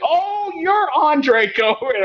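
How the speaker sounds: high, slow, drawn-out disbelief; as if the voice never matched the face; surprised recognition. Retold or imitated. Office hosts meeting the conference-call voice, high slow surprise. Hosts meet him in person.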